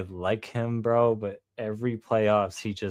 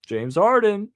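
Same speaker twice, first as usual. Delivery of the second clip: a hammed-up hype call of the name, higher and louder; mock hype; 9 semitones higher, 5 dB louder than usual. Mocking the hype every playoffs, a hammed-up high call of the name.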